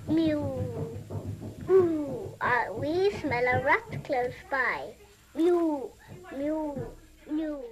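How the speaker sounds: sing-song rhyme read to a small child, voicing the kittens and mother; playful nursery rhyme telling; nursery rhyme recital. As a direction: recite it like a bedtime rhyme for a toddler.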